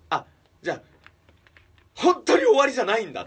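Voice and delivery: high, loud rush of relief; relieved cry. Retold or imitated. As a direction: blurt out the relief, almost in tears. っていう安堵感もあるし. (安堵して高く大きく叫ぶ)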